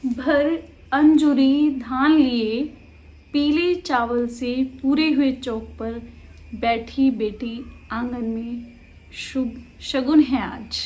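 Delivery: slow, measured poem reading; deliberate, phrase-by-phrase verse; poetry recitation. Acted. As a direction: recite the verse slowly, pausing between lines. Reads the poem aloud.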